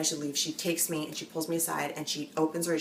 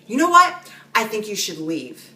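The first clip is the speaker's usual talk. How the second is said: retold scream; 3 semitones higher, 8 dB louder than usual. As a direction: imitate the owner yelling her out. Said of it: "He starts screaming".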